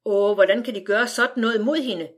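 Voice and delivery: mild tearful lament; a touch of crying in the plea; crying mother. Acted. Mother crying to the family over the arrest. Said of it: "græd mor".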